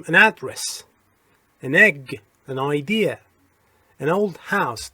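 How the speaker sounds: put-on "an" run straight into the next word in "an address", "an egg", "an idea", "an old house"; linked as one word. Shown as a demonstration. Teacher showing learners how "an" sticks to words, linked as one word. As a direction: join "an" onto the following vowel, no gap. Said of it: "انگار که یک کلمه است".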